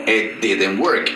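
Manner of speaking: "I didn't work" said very slowly, each word apart; slow model sentence. Shown as a demonstration. Teacher models "I didn't work" slowly for students. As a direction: spell it out slowly for the class. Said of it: "Did ya me indica que es una negación".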